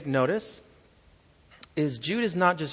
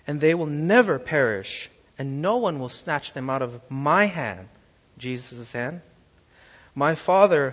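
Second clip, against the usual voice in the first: scripture quote. Acted. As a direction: proclaim the verse with force. Quoting Jesus in sermon.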